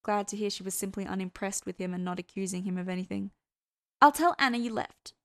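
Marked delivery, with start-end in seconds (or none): 4.0-5.1 higher, louder character voice; Hester's voice. A narrator's reading. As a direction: lift pitch and volume for her parting words. Hester's parting words in character.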